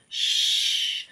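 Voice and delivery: soft unvoiced shh; quiet shushing sound; hushing. Real, not acted. Rabbit asleep, hushing child.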